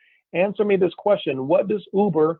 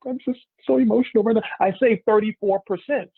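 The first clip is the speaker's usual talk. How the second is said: much higher, gushing and breathless; gushing excitement; 6 semitones higher than usual. Acted. Mimicking Haley thrilled at her savings, high gushing. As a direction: play the overjoyed friend who saved big. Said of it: "So she's excited".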